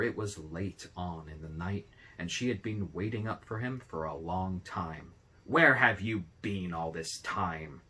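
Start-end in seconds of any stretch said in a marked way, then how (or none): 5.4-7.8 loud, slow, scolding wife; big voice. A narrator's reading. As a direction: demand it loudly of the late husband. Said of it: "she asked in a big voice".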